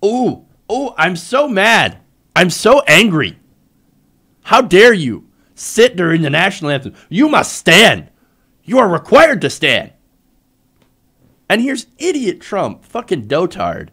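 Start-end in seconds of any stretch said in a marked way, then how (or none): 0.0-9.9 loud whiny mock outrage, louder; sarcastic impression of angry conservatives; mocking butthurt conservatives. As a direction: ham up an offended conservative's tantrum. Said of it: "butthurt conservatives decided".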